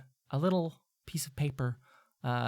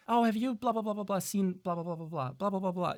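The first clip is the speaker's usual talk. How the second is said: gossiping student; 7 semitones higher than usual. Retold or imitated. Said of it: "you do hear about".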